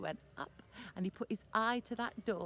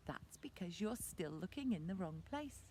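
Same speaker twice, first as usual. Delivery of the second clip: patient mum; 3 semitones lower, 8 dB quieter than usual. Acted. Mum answers the whining boy.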